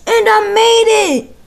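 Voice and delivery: excited. Real, not acted. Flip lands.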